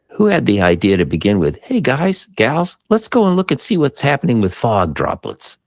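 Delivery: high-pitched mock pitch to colleagues; rally the guys and gals, voice lifted high; eager proposal. Imagines researchers proposing a study.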